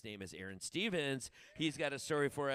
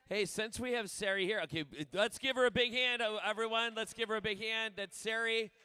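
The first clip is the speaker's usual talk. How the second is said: big applause call; 9 semitones higher, 7 dB louder than usual. Real, not acted. Host calling for applause.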